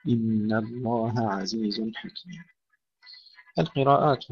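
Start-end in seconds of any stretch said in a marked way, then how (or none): 0.1-2.4 الله عزيز softly and slowly, ه apart from ع; soft model reading of الله عزيز; quiet correct take. Shown as a demonstration. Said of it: "نفصل بعضها عن بعض".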